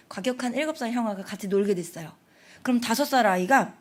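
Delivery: ordinary talk, nothing marked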